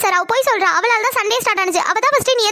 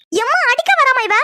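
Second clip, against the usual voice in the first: whiny complaint; 5 semitones higher than usual. Acted. Sister complains to mother.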